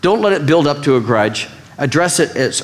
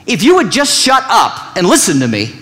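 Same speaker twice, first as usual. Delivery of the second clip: mock angry wrong way; 4 semitones higher than usual. Shown as a demonstration. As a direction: play the wrong way, pushy and sharp. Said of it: "Here's the wrong way to say it".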